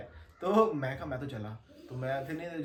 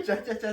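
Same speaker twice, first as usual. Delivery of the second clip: higher bird chirps "चा, चा, चा" broken by laughter; chirping with a laugh; 7 semitones higher, 6 dB louder, slower than usual. Retold or imitated. Repeating the bird sounds for friends, laughing chirps. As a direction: chirp like a bird while cracking up. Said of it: "आवाज आ रही है".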